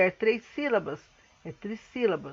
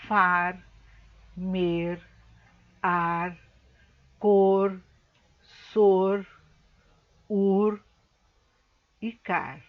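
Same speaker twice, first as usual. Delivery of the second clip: spaced-out list of syllables, a long pause after each; isolated syllables; 3 dB louder, much slower than usual. Shown as a demonstration. Teacher reading syllables from the box to pupils, one by one. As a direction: read each syllable on its own, evenly.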